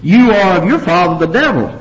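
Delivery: mildly heated accusation; scorching rebuke. Acted. Jesus scorching the Jews in verse forty-four, forceful rebuke. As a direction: denounce them with some force. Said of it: "he really scorches them here".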